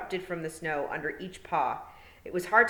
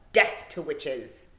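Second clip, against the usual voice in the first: put-on boy's battle cry; 5 dB louder, much slower than usual. A narrator's reading. Boy draws dagger on witch.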